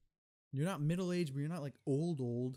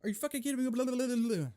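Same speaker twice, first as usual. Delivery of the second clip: higher, louder angry outburst; retold yell; 9 semitones higher, 6 dB louder, much faster than usual. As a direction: let it out at full energy. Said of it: "full energy".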